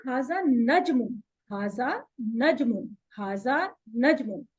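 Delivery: slow drill of "नजमुन" as naj-mun; careful pronunciation. Shown as a demonstration. Teacher drills students on the word, careful pronunciation. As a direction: stretch "हाजा नजमुन", falling, j closed before mun. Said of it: "pronunciation के ऊपर थोड़ा सा".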